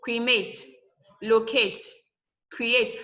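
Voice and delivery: Cremate, locate, create, each stressed on the second syllable; cre-MATE, lo-CATE, cre-ATE as separate examples. Shown as a demonstration. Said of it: "are stressed on the second syllable".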